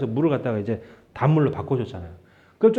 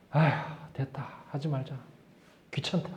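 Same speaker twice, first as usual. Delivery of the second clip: much softer, resigned sigh of giving up; tired, muttered shrug-off; weary mutter to self; 4 semitones lower, 12 dB quieter than usual. Retold or imitated. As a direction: let it go under your breath, much softer. Giving up on replying to scammer.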